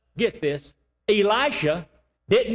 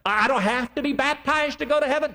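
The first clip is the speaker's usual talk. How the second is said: incredulous question; 6 semitones higher than usual. Retold or imitated. Imagined doubter questions.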